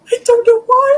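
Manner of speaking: loud distorted mic. Real, not acted. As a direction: voice clipping through a loud mic. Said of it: "It got so loud".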